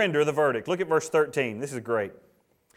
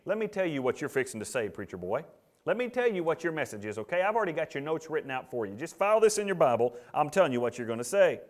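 quiet intimidation; 4 dB quieter than usual. Acted. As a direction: lean on the preacher quietly to fall in line. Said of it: "We call that intimidation, meaning".

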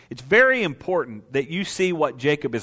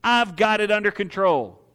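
cocky dismissal; 5 semitones higher than usual. Retold or imitated. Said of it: "self-confidence".

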